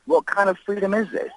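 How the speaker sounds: outraged cry. Real, not acted. Caller tells Morris about the attack, outraged cry.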